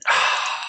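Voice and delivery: long weary sigh out through the nose; heavy sigh. Real, not acted. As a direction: let all the air go, beaten. After a losing stock pick.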